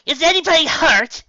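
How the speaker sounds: high, loud official call; official authority. A narrator's reading. Tracy to the crowd, calling with official authority. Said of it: "slipping comfortably into her role".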